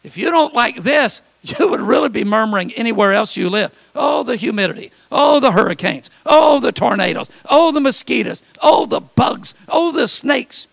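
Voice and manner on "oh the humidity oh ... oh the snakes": higher, louder groaning list of complaints; building whiny lament; mock moaning. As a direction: moan each one like a grumbler. Mock complaints about weather.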